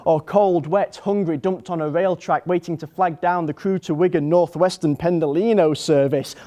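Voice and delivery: mock-panicked tirade; acted panic. Acted panicked thoughts, heart racing.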